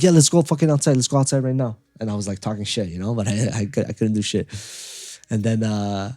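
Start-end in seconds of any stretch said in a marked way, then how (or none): 0.0-1.8 louder, higher mock challenge; tough-guy bluff. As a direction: put on a tough front, calling them out. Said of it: "pretend like you're tough".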